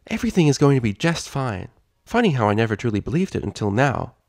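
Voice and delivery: lightly voiced cheerful princess; cheerful Twilight.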